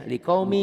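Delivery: likaumi chanted high and loud, final N gone; teacher's loud model of likaumi, N swallowed; tanwin merged, no N. Shown as a demonstration. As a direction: recite LIKAUMI ending on a held "mii".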